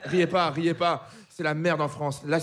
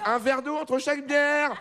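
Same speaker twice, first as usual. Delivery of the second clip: preachy advice voice; 5 semitones higher, slower than usual. Retold or imitated. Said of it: "quelqu'un qui dit toujours".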